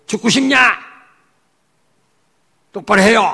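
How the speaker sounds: high, loud mock threat; preacher imitates a leader threatening his members, loud mock yell. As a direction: bark it like a bullying cult leader. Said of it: "막 이러니까".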